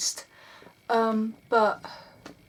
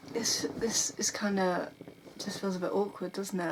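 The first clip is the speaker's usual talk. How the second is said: whisper; 6 dB quieter than usual. Real, not acted. Hesitant aside after holding back.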